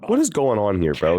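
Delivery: what are you even talking about, baffled; exasperated disbelief. Real, not acted. Gamer ranting at Gohan's writing, exasperated disbelief.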